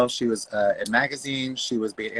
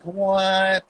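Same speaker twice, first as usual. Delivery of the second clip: puzzled what; 8 semitones higher than usual. Retold or imitated. Cheap sash instead of crown.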